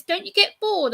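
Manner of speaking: lightly mimicked incredulous driver. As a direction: pitch it way up in disbelief. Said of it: "he goes".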